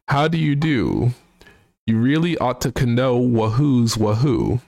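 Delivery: hoity-toity British gent voice, sung-spoken; mock posh British, half singing a song; British accent. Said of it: "try and also do his, uh, accent".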